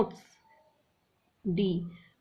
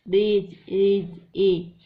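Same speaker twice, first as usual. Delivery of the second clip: रेज, एज said clearly louder, ending एज hit hard; loud rhyme callout; 8 dB louder, much slower than usual. Shown as a demonstration. Teacher to students, loudly matching रेज and एज. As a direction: call out the matching end sound. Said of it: "ले बोलने में आ रहा है".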